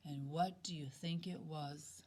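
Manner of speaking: hushed suspense whisper. A narrator's reading. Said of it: "storyteller builds suspense".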